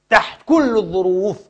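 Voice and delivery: rising pulpit emphasis; emphatic. Real, not acted. Repeats phrase, loud first.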